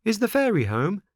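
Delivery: put-on pleading wooden boy at the door; Pinocchio voice. A narrator's reading.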